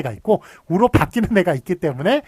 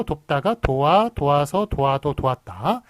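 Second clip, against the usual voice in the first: slow demo; slower than usual. Shown as a demonstration. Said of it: "예를 보시면".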